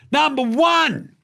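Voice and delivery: drawn-out high announcer call; mock announcer. Host announcing the first question in mock announcer voice. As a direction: boom it out like a countdown host.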